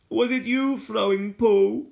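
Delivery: put-on a hidden child asking suspiciously; lightly voiced young child; curious child. A narrator's reading.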